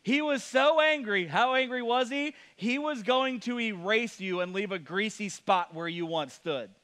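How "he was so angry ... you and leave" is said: much higher, slow comic build; slow, hammed-up call to the audience; Johnny Carson setup. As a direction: ham up the setup for the crowd. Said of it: "That one's not a very good punchline".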